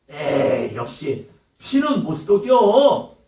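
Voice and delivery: slow, dismissive sneer about blood; contemptuous jab. Retold or imitated. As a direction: drawl it out with scorn. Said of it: "이런 말을 던진다면".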